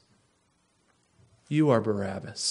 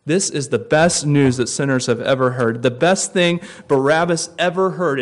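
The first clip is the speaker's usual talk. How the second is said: repeated with more force; best said louder, falling firmly; 6 dB louder than usual. Shown as a demonstration. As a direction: push the repeat, leaning on best. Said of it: "repeated louder".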